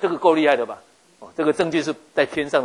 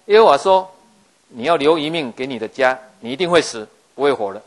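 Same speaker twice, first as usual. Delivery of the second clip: stern announcement; 7 dB louder than usual. Acted. Prophet announces king's death.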